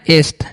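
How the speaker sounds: एस्ट said with the st cluster; एस्ट, ending in a crisp st; correct pronunciation. Shown as a demonstration. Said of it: "उसका उच्चारण क्या करना है?".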